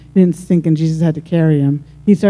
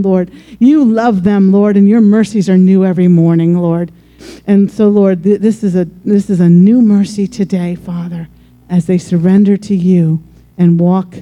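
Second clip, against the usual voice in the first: fervent pastoral prayer, rising and falling with each "Lord"; earnest prayer. Acted. Pastor praying over the standing congregation, fervent prayer. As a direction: pray over them with conviction.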